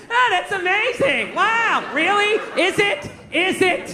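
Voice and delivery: high, drawn-out fake amazement; acting impressed. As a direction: overdo your wonder to humour a kid. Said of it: "like you're impressed".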